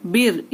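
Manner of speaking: "बिर" with a thin final R; thin, light R. Shown as a demonstration. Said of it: "ये हो गया रॉ साकिन बारीक". ("बिर" की र बारीक)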